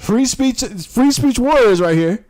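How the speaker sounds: mocking sarcasm. Real, not acted. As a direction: sneer the label out slowly.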